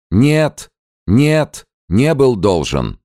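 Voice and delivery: very high, loud panicked cry; frightened exclamation. A narrator's reading. Gao denies the debt in terror, high cry. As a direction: blurt out the denial in panic. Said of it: "воскликнул Гао".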